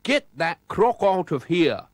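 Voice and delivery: slow, loud snarl; menacing crook snarl. A narrator's reading. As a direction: growl it out at the intruder, slowly. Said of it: "snarled McClurk".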